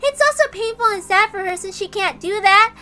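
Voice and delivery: gentle stuffed toy. Acted. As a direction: coax a sad child. Stuffed animal Sakutaro comforts Maria.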